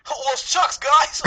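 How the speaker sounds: put-on high, loud hillbilly Southern accent. Co-host mocks what he was expecting from the guests, exaggerated Southern accent. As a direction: put on a high-pitched comic Southern twang. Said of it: "you did a very good accent".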